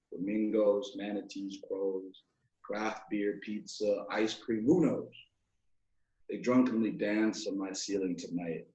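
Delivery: hushed-down close of a recited poem; spoken-word poem reading. Acted. Poem's slower closing list.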